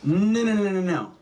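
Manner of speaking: high, rapid string of protests; frantic denial. Acted. Comic telling an audience he refuses to wait for forty, frantic. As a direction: protest loudly, pitch jumping up.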